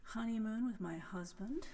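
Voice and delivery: hushed whisper, confiding. Real, not acted. Radio host whispering her news to listeners. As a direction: lean in and whisper it. Confiding aside about France trip.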